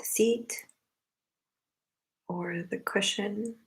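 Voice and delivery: unhurried meditation guidance in short phrases with long pauses; spacious, measured meditation leader's delivery; guided meditation. Acted. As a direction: guide them gently into the breath, leaving long silences.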